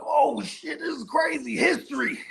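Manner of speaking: laughing, excited exclamation; excited half-laughing wonder; amazed. Retold or imitated. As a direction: gush over the old tree. Retold amazement touching tree.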